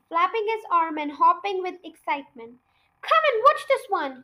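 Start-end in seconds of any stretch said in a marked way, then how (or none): 3.0-4.2 higher, raised call; excited call to his wife. A narrator's reading. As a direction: call her over from the yard. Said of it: "he called out to Missus Cranky".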